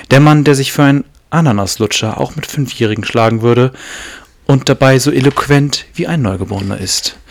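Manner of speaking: formal loud in-flight announcement; pilot voice. Acted. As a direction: announce it like a captain over the PA. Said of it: "Du hast eine richtige Pilotenstimme". (förmliche Pilotenstimme bei der Bordansage)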